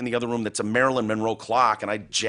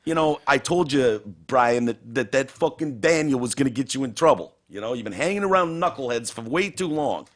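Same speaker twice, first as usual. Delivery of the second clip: scolding father; 4 semitones higher than usual. Pretend. The dad telling his son off, lightly voiced stern father. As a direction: lecture the wayward son.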